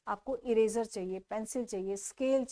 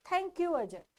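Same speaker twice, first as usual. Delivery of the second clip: put-on higher bright-kid voice saying thank you; a child thanking a friend, voiced higher; cheerful kid's thank you; 7 semitones higher, 4 dB louder, much slower than usual. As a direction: play the boy thanking his friend, pitched up. Boy thanks his friend Ajay.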